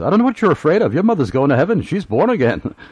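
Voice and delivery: put-on very high, shrill, swooping, heavy sing-song Welsh accent. Retelling what a visitor said after seeing his dying mother, in a thick Welsh accent. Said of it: "in his thick Welsh accent".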